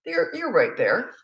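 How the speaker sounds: voiced, slow and gentle; spoken reassurance. Shown as a demonstration. Mother reassuring a child mid-tantrum, calm and slow. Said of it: "spoken first take".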